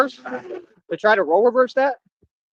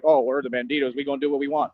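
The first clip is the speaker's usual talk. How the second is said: lower, softer, mock-tough biker voice; mock tough guy; 6 semitones lower, 4 dB quieter than usual. Mocking the banditos' tough talk, lower and softer. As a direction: belittle them by faking their swagger.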